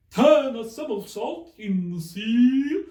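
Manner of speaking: high, loud cry; cried out. A narrator's reading. The Mock Turtle cries out while capering, high and loud. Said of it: "cried the Mock Turtle".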